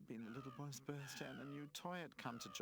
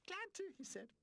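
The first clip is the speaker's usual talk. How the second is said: high eager boast; flattered; 5 dB louder than usual. A narrator's reading. Adventurer Charlie Chip accepting the lead, high and eager. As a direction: take the lead proudly. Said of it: "Charlie Chip was flattered".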